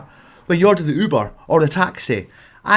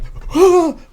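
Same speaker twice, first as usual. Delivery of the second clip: startled gasp; 10 semitones higher than usual. Retold or imitated. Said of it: "then she's like".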